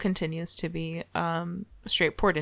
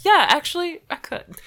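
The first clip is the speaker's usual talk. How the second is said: mock giddy; 9 semitones higher, 4 dB louder than usual. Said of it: "And he was like".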